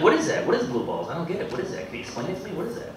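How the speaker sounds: mock a baffled, insistent questioner; pestering girlfriend. Girlfriend keeps asking the comic to explain, mock-baffled.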